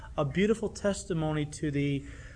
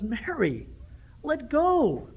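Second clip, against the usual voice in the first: urgent plea; 8 semitones higher, much slower than usual. Retold or imitated. Preacher voices Jesus pleading.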